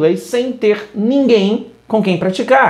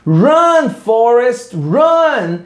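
quoting Jenny; 4 semitones higher, much slower than usual. Retold or imitated. Teacher quotes the film scene, lightly voiced shout. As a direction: call out to Forrest like his girlfriend. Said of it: "a namoradinha dele fica".

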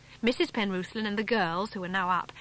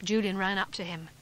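usual speaking voice

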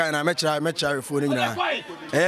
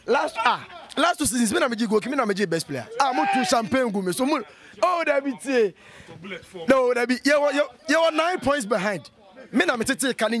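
higher, animated bragging about his goals; excited boasting; 4 semitones higher than usual. Real, not acted. Player boasting to teammates about last seasons, excited. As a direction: brag it up, voice climbing.

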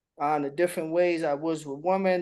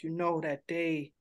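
mock poetic; 2 semitones lower than usual. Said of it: "it's supposed to sound poetic".

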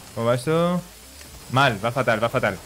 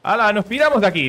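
quoted character line; 8 semitones higher, 5 dB louder than usual. Retold or imitated.

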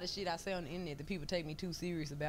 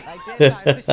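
sudden outburst; 5 semitones lower, 22 dB louder than usual. Real, not acted.

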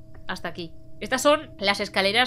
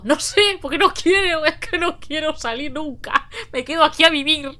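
miedo quejoso; 5 semitones higher than usual. Real, not acted. Refuses to leave hiding place.

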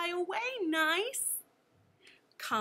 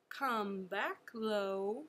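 low voice; 4 semitones lower, slower than usual. Shown as a demonstration.

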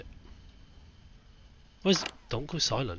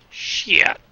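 scared horror game streamer; 6 semitones higher, 7 dB louder than usual. Real, not acted.

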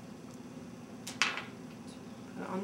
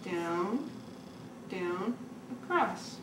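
soft, sing-song tracing count; gentle coaching; 4 semitones lower, 5 dB quieter, much slower than usual. Shown as a demonstration. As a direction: guide her softly through strokes. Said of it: "Mommy show you".

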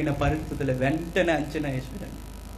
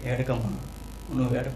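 gently consoling; 2 semitones lower, 4 dB quieter than usual. Acted. Jesus comes near the grieving mother, gently consoling her. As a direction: softly soothe a weeping mother. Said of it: "వచ్చి ఓదార్చున్నాడు".

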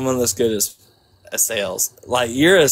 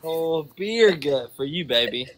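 put-on Southern accent. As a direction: lay on a Georgia Southern accent. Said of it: "I got that southern accent".

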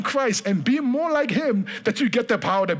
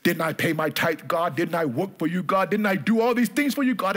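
self-pitying complaint; 4 semitones lower than usual. Retold or imitated. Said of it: "but I'm saying to myself".

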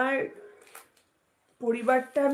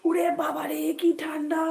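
higher cold-shock cry; shivering from cold; 5 semitones higher than usual. Real, not acted. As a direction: gasp at the freezing cold. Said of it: "আমার খুব শীত করছে". (ঠান্ডায় কাঁপতে কাঁপতে)

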